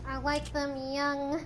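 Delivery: slow, drawn-out creepy line; voice-changer creep, slowly. Retold or imitated. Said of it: "a little voice changer".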